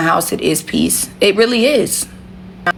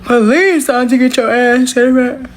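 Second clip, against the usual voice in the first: higher, louder call across the house; 6 semitones higher, 3 dB louder than usual. Real, not acted. Calling Santi to the front of the shop, raised call. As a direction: yell for her to come to the front.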